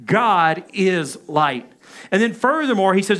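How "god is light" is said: very slow God is light, said in unison; call and response. Shown as a demonstration. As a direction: lead the room through it slowly. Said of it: "Let's say that together".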